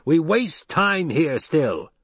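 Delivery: high, drawn-out call from above. A narrator's reading. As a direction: call down to the group, stretched out. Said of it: "voice from the rocks above them called".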